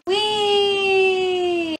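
high, long-held squeal of fun; playful whee. Real, not acted. Vlogger starting the laundry, high playful squeal. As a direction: stretch out a gleeful whee.

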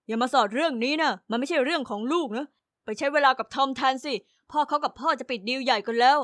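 lightly voiced gruff father; dad telling daughter to keep out; stern father. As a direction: shut her down firmly.

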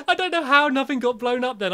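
slow, breathless relieved laughter; shaken laughing. Real, not acted. Catching his breath after the scare, laughing in relief. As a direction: laugh off the fright. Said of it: "I just need a breather".

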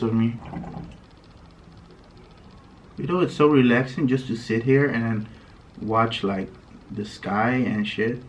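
mouthpiece held in lips; speaking while smoking hookah; talking around hookah mouthpiece. Real, not acted. Seen 0: hookah hose tip held between lips while talking, smoke earlier.

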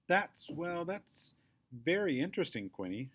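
a mom straining to stay polite; awkward mom voice. A narrator's reading. Hopper's mom politely deflecting the girl, uneasy.

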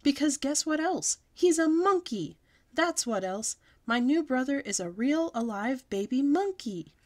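high, loud triumphant announcement. A narrator's reading. Girl loudly announces her brother to the class. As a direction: proudly shout the big reveal. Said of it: "I said very loud".

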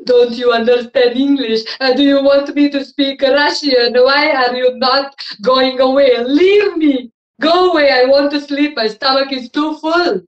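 loud, cranky dragon voice; annoyed dragon. Acted. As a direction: shoo her away, irritated. Dragon scolds princess.

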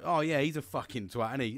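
offhand gossiping agreement about someone; casual agreement. Shown as a demonstration. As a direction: toss it off as a chatty tag question. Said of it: "say that in so many different ways".

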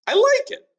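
high pleased Ben; lightly voiced Ben. Ben approving the townsfolk's saying, high. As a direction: take the insult as praise. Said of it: "said Ben".

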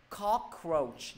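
COCK stressed in "cockroach", then falling; stress on first syllable. Shown as a demonstration. Teacher showing students the word stress, first syllable stressed. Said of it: "nhấn vô âm tiết thứ nhất".

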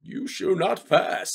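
slow villain growl falling into Bane; a lightly voiced masked villain; slow mock Bane line. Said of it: "That's more Bane".

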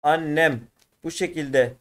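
annem with a doubled n, said slowly and clearly; correct spelling shown. Shown as a demonstration. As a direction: spell out annem carefully for the class. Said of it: "anne şu şekilde". (annem kelimesini açık ve yavaşça göstererek)

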